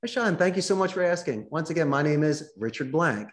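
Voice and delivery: eager friendly reply. Shown as a demonstration. Demo answering name question.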